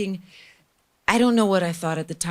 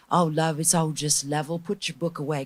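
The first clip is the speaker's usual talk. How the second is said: imitated English Jamaican, easygoing advice; lightly voiced English Jamaican mentor; English Jamaican accent. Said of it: "this English Jamaican dude".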